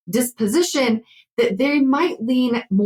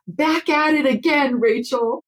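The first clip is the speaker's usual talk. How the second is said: higher, chipper AI assistant greeting; chatbot greeting; 5 semitones higher than usual. Retold or imitated. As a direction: greet her like an eager chatbot. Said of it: "it'll say something like".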